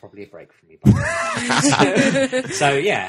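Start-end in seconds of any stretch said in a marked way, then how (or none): 0.8-2.5 hearty laugh. Real, not acted. Laughs at his own joke.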